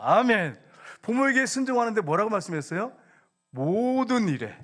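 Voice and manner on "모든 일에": 모든 drawn out long and high; stress on 모든. Shown as a demonstration. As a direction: stretch 모든 slowly for emphasis. Preacher stresses key verse words.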